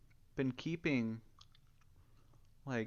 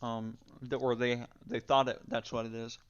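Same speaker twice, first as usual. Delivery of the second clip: talking while chewing gum; words around a wad of gum; 6 dB louder than usual. Real, not acted. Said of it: "I'm chewing gum right now, so I sound kinda weird".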